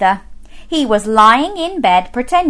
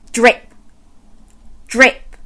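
dripping tap. Acted. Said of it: "went the leaky kitchen tap".

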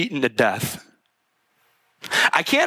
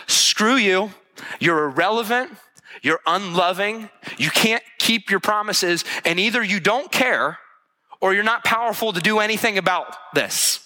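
higher, mounting mock outrage at God; imagined angry grief; 5 semitones higher than usual. Grandparents raging at God over their lost son, in higher-pitched mock anger. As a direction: voice the grandparents turning on God, building to the final "screw you". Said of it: "would have said to God".

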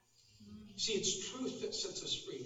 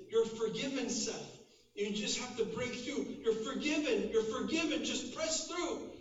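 insistent, higher-pitched reassurance; rising Father's voice; 5 semitones higher than usual. Retold or imitated. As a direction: imitate a father urging his son through. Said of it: "heard the Father's voice rise above".

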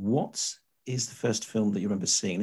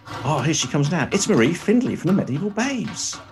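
hammy stage actor; 3 semitones higher than usual. Pretend. Mock medieval herald announcing guest.

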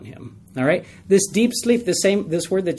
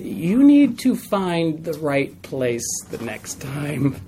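firm warning; much slower than usual. Retold or imitated. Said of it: "I said".

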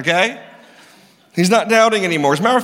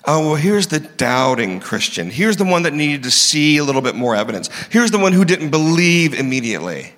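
condescending; 3 semitones lower than usual. Acted. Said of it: "He didn't do that".

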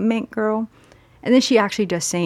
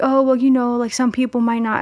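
mock hedging; 4 semitones higher than usual. Retells friend's evasive answer.

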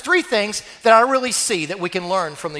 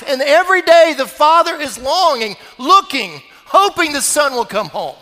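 louder, higher, swelling with longing; building longing; 4 semitones higher, 4 dB louder than usual. Acted. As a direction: build each word like a yearning father. Preacher builds the father's longing.

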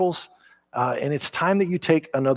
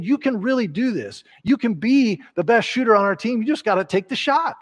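encouraging coach; 7 semitones higher than usual. Acted. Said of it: "They're just saying".

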